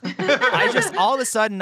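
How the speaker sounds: bursting into laughter mid-sentence; laughing. Real, not acted. Laughing at the story.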